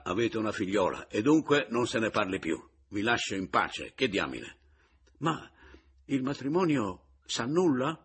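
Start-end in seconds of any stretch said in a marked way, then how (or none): 5.2-8.0 higher and louder, an urgent question; anxious shout. A narrator's reading. Pomino, alarmed, shouting at Mattia about the marriage. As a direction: cry out in alarm. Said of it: "gridò Pomino".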